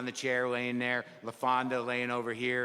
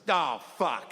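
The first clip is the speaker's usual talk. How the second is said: dismayed groan. Retold or imitated. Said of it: "My response was".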